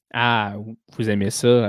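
syrupy, coaxing French purr; a lightly sugared come-on; honeyed voice. Shown as a demonstration. Host showing how the French line would sound, honeyed. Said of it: "avec une voix mielleuse".

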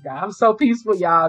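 exclaiming joyfully. Retold or imitated. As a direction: proclaim it happily to God. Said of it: "I said".

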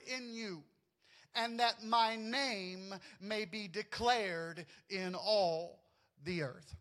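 slow, measured reading of the verse; scripture reading. Acted. Pastor reading Exodus to the church, slow and measured. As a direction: lay each phrase out solemnly, pausing between.

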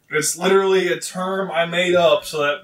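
muffled, voice into a cup; talking into a cup. Real, not acted. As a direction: speak into a cup. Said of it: "Why do you keep talking into a cup?".

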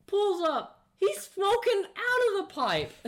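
high, loud, slow telling broken by laughter; laughing retelling. Real, not acted. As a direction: barely get it out for laughing. Excited telling while laughing.

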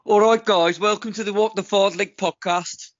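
put-on Brummie accent; Birmingham accent. Shown as a demonstration. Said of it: "Do Birmingham".

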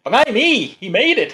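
hammed-up Cockney-ish English accent, high and loud; mock English accent. Mocking the actor's fake English accent in a film. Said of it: "it's just the intonation".

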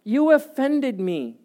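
high, slow, pouting complaint; sulky toddler. Retold or imitated. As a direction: drag it out like a sulking two-year-old. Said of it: "sounding like two-year-olds".

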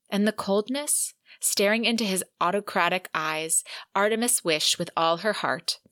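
even, measured audiobook narration; literary read-aloud. Acted. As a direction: read the passage like a storyteller, steadily. Reads a long passage aloud.

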